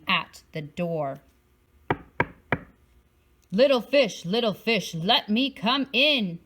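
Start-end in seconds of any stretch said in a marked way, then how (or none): 3.5-6.4 shark's call. Acted. Shark calling to the little fish at the door, lightly menacing. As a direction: coax the fish to open up, menacing. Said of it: "roared the shark".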